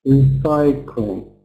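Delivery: "Recycling" slowly as re-CY-cling; weight on the CY of "Recycling"; second-syllable stress. Shown as a demonstration. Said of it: "important to get the stress correct".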